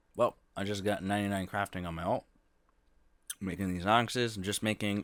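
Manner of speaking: talking with mouth full while chewing. Giving a game progress update, talking with mouth full. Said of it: "I got some Skittles in my mouth".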